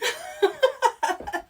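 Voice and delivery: high loud cackle; laughing fit. Real, not acted. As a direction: crack up hard. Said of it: "That shit had me crying".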